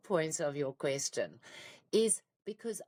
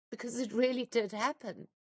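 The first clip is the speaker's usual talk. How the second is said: higher voice on the edge of crying; fighting tears; 4 semitones higher than usual. Real, not acted. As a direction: hold back real tears while telling it. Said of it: "now I'm gonna cry".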